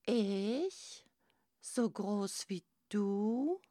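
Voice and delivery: drawn-out incredulous question; crying out. A narrator's reading. Little crab asks the giant, crying out in wonder. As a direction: cry out in mild disbelief. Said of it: "weinte Kasper".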